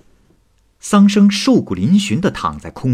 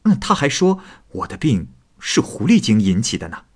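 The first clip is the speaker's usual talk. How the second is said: light laugh, then teasing; joking; 3 semitones higher than usual. A narrator's reading. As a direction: laugh and brush it off playfully. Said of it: "开玩笑地说". (笑着开玩笑地说)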